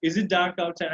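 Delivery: "outside" lifted as a question; rising question tone. Shown as a demonstration. Teacher demonstrates for learners, rising tone on "outside". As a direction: ask it with "outside" going up. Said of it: "I'm going with rising tone".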